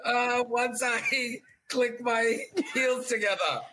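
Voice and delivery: slow, mock Terminator voice; a half-hearted Terminator catchphrase; Terminator impression. Shown as a demonstration. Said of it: "that was Terminator and Schwarzenegger".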